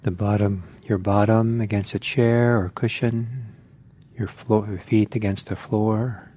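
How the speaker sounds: spacious, measured instructions with room to breathe; guided meditation. Real, not acted. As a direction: calmly guide listeners into settling, phrase by phrase.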